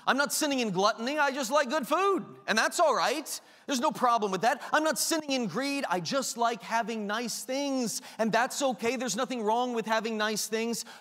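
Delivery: a hint of cheerful self-justification; mock glutton's excuse. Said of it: "pride justifying our sin".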